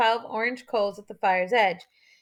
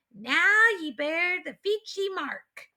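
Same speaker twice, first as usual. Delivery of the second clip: higher, slow solemn pronouncement; solemn chief; 7 semitones higher, slower than usual. A narrator's reading. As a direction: proclaim it like a rite.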